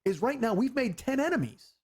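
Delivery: high-pitched, emphatic retold argument; exasperated insistence. Warning girlfriend about ten enemies, exasperated insistence. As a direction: lay out the danger, pitch riding high.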